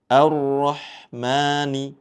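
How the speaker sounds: Ar-Rahmani with the opening A light and thin, slow. Shown as a demonstration. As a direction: keep the first A of Ar-Rahmani thin, not heavy. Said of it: "A di awal dibaca tipis".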